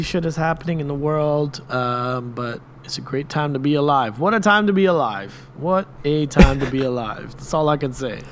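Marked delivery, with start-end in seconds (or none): 4.2-5.3 excited. Pretend. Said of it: "repeated catchphrase, first take raised".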